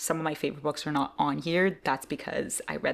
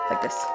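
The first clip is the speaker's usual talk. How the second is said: cheer. Pretend. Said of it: "cheering from over here".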